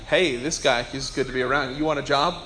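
low, lightly sly aside; a touch of self-interest, pitched low and quiet; selfish human side. Acted. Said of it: "as the selfish human side of me".

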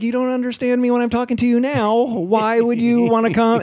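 incredulous retold question. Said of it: "And I'm like".

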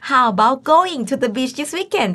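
very slow, careful classroom read; slow example read for Thai learners; slow model sentence. Shown as a demonstration. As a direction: draw each word out for the class. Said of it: "teacher models the example slowly".

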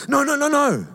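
guru forbidding. Retold or imitated. Guru cuts the disciple short.

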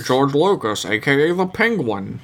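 lightly voiced Penguin villain; a hint of comic-book villain. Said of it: "like, Batman villain voices".

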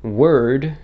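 "word" with a full hard R; "word" with the R firmly sounded; exaggerated American pronunciation. Shown as a demonstration. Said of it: "I don't really say it as".

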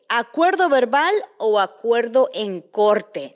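slow, loud announcer read; dramatic announcer. Acted. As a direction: announce the topic slowly and loudly. Show topic announced dramatically.

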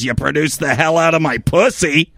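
low, rough imitating voice; a hint of a raspy waitress; low gravelly voice. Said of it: "Just this low, graggly voice just goes".

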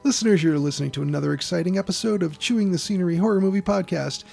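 podcast intro read. Acted.

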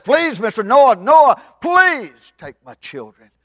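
high, shouted mother's plea; loud, slow, frantic appeal; desperate begging. Acted. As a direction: cry out for your children, stretching the words. Mama begs for her children.

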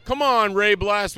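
retold urging. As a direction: goad a reluctant friend by his hero name. Friend urging him onto the ride.

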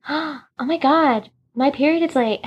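hushed-in-awe retold alarm; shocked. Bella discovering she may be pregnant, shocked.

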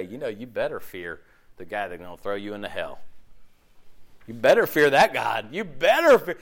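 mock hellfire threat. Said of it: "we can take this very combatively".

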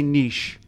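niche as "neesh", long ee; questioned pronunciation. Shown as a demonstration. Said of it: "Would you ever say".

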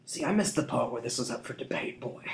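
amused, menacing thug; chuckling thief. A narrator's reading. Thief amused by the boy's refusal, mocking. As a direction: toy with the boy. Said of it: "he chuckled".

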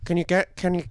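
lightly acted film director summoning an actress; Danny Boyle. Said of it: "this is Danny Boyle".

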